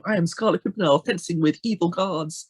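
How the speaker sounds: lightly dramatic swashbuckling hero; play-acting a heroic boast, mildly hammed; a touch of make-believe derring-do; Scarlet Pimpernel. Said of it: "in a cool and dramatic way".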